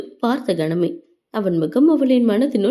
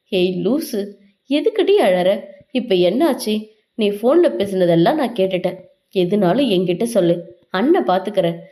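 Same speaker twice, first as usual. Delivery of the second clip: lower, gentle soothing voice; tender brotherly comfort; 4 semitones lower than usual. Acted. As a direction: soothe your crying little sister. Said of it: "தலையை வருடிக்கொண்டே கேட்டான்".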